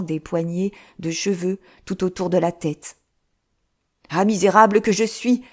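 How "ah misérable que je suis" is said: loud anguished wail of a penitent monk; cri désespéré. Acted. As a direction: cry out in despair, beating your chest. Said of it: "s'écria le moine". (cri de désespoir du moine)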